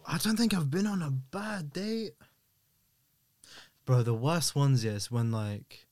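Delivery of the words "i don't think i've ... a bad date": whispering. Real, not acted. Whispered, unvoiced.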